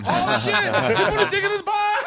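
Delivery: real delighted laughter at the joke; laughing. Real, not acted.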